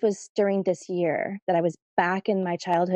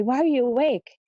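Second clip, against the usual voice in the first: raised pitch, emphasis on "are"; mock-startled question, higher on "are you"; 5 semitones higher, 3 dB louder than usual. Startled mother questioning her daughter at night, stress on "are".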